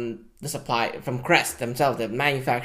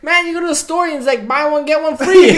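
mock exasperation; 11 semitones higher, 10 dB louder, faster than usual. Mocking the pitch, laughing.

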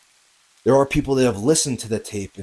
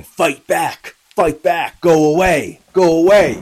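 loud, higher shouts, building in force; retold desperate yell, growing louder; imitated yelling; 6 semitones higher, 10 dB louder, slower than usual. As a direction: yell short urgent commands, retelling her cries. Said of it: "you hear Amy yelling".

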